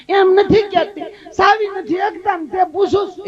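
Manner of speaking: mock-indignant village woman; insistent shout. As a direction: insist sharply that she means it.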